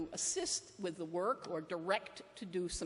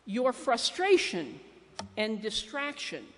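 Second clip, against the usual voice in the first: emphatic message; 7 dB louder than usual. Retold or imitated. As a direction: lean hard on the first word. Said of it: "that says".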